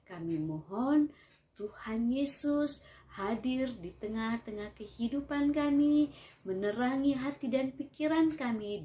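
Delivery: prayer voice. Acted. Leads the children in prayer.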